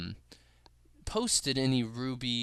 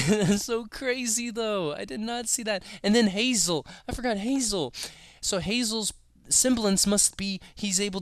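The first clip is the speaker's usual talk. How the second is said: excited; 7 semitones higher than usual. Real, not acted. Excited reaction, pitch raised.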